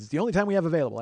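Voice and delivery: high, loud mock agent voice; imitating peppy customer service; company agent. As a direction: answer like an overeager booking agent.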